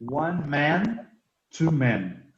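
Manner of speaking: one man con A abierta y two men con E común; contrast man and men. Shown as a demonstration. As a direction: marcar la diferencia entre man y men. (man contra men bien marcados)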